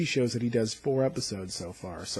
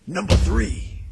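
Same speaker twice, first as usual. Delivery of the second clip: higher and louder, announced; loud countdown call; 5 semitones higher, 9 dB louder, slower than usual. Acted. Host announcing his third favourite moment, loud call.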